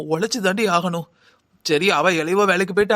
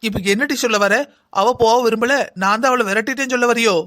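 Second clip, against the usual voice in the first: indignant retort; 2 semitones higher than usual. Acted. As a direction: throw the accusation back at her. Mother flares up at daughter. (கோபமான பதிலடி)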